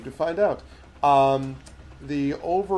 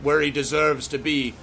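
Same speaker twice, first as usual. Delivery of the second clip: higher, louder scornful giantess; mocking giantess; 3 semitones higher, 4 dB louder than usual. Giantess mocking the gnome and claiming power, higher and louder. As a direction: sneer down at the little one.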